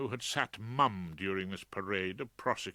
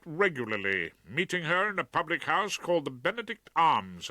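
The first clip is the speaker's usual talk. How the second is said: raised, declaiming courtroom voice; barrister addressing jury; 5 semitones higher, 4 dB louder than usual. Acted.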